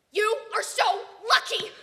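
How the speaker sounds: loud, high, gushing envy; envious cry. Acted. Kid to spotty friend, loud envious gush. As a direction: blurt it out, dazzled and jealous.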